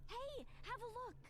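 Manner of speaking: very high, happy, upbeat optimistic voice. Previewing a game character's voice line: optimistic and happy voice. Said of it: "that was optimistic and happy".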